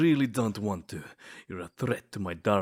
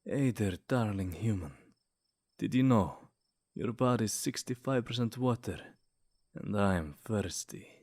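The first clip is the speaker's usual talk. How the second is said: flirty pickup line. Acted. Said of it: "Let me try another one".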